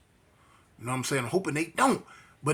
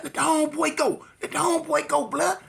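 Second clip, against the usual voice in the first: higher, urgent demand to let go; gang demand; 9 semitones higher than usual. Retold or imitated. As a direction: make him release your friend. Gang orders him to let go.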